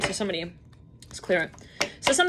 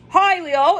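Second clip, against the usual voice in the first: loud, high pop-up hello; sudden greeting; 8 semitones higher, 7 dB louder than usual. Retold or imitated. Shopper popping up to Leo mid-aisle, calling out. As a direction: call out as if springing from nowhere.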